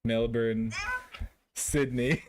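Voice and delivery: Melbourne as MEL-bun and Sydney as SID-nee; copied pronunciation. Retold or imitated. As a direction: carefully echo a local's Melbourne and Sydney. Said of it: "thank you for the, the pronunciations".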